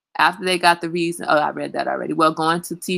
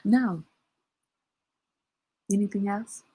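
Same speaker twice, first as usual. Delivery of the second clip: curt dismissive no; 7 dB quieter than usual. Shown as a demonstration. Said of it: "that's how you tell your boss".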